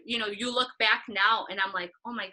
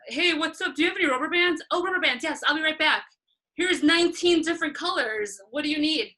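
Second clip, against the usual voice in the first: eager helper; 6 semitones higher, 4 dB louder than usual. Retold or imitated. Eager assistant acting out errands.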